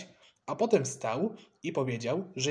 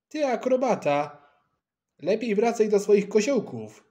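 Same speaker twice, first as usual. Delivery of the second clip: put-on higher, louder indignant boy; angry retort; 6 semitones higher, 5 dB louder than usual. A narrator's reading. Maksencjusz tells the acrobat to go back to his somersaults, angry. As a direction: snap back crossly, pitched up. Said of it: "zezłościł się Maksencjusz".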